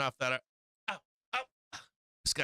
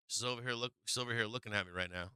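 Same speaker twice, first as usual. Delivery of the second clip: softer, quicker muttered aside; quiet aside; 3 semitones lower, 6 dB quieter, faster than usual. Real, not acted. Telling the chat about the staring cat, quiet and quick. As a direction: drop the voice and rush it out as an aside.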